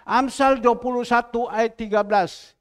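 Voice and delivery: verse reference called out loud. Shown as a demonstration. Preacher asks Ibu Nyo to shout, loud call-out. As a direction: shout the verse number for the room. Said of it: "Amsal berapa Ibu Nyo yang keras".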